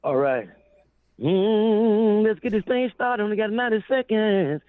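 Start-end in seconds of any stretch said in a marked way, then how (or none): 1.2-4.6 much higher, hyped-up opener; hype voice on request. Real, not acted. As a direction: kick it off like a radio hype man. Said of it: "Let me hear you sing".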